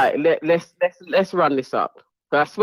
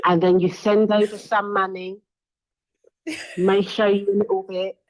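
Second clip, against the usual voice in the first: Ella B voice. Retold or imitated. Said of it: "do the intro in Ella B's voice".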